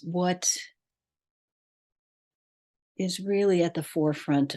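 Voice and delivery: measured meditation guide, long pauses between phrases; guided meditation. Real, not acted. Podcast host leading listeners to breath and heart, guided meditation. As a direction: lead them inward phrase by phrase, leaving long silences.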